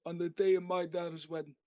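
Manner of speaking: quick sample line in a loose Godfather-style voice; mobster don voice. Shown as a demonstration. Previewing the voice he will use, light mob boss impression. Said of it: "I'll do that voice for, like, a minute".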